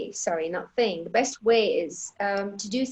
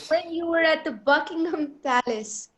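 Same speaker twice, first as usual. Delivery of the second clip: dramatic read-out; 4 semitones higher than usual. Real, not acted. Host continues the teasing read-out.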